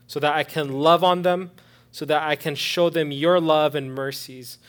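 loud, impassioned preacher's prayer; fervent prayer. Real, not acted. Preacher prays for new servants of God, fervent and loud. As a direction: pray out boldly, phrase by phrase.

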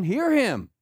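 first emphatic call; voice from heaven. Acted. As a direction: proclaim it loudly from on high. Voices God's command from heaven.

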